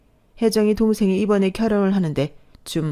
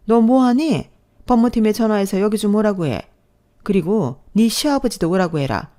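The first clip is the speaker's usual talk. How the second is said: commanding; 2 semitones higher than usual. Acted. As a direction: bark orders to call lawyers. Mother-in-law commands daughter-in-law.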